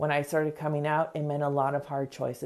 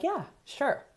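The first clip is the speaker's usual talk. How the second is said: half-hearted yes; 9 semitones higher, 4 dB quieter than usual. Retold or imitated. Reluctant agreement acted out.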